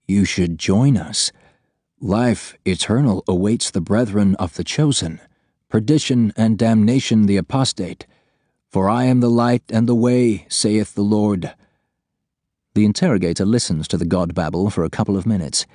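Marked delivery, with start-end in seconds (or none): 0.1-11.5 preaching possessed voice. Acted. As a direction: intone it like a zealot preacher. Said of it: "The prisoner's voice shifts".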